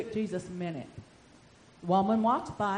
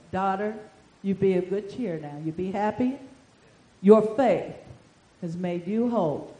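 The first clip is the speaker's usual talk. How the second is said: lower, gentle fatherly voice; tender voice of Jesus; 3 semitones lower, 5 dB louder than usual. Retold or imitated. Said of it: "he called her daughter too".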